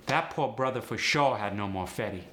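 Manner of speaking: relaxed AAVE delivery; AAVE sentence. Shown as a demonstration. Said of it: "Let's try a sentence".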